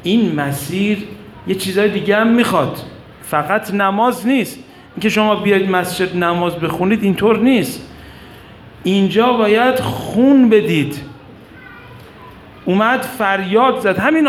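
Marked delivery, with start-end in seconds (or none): 0.0-11.0 lightly raised, urgent speech to a crowd; retold speech. Abes addressing the people on what this path demands, retold oratory. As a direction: exhort the people, building to a higher finish.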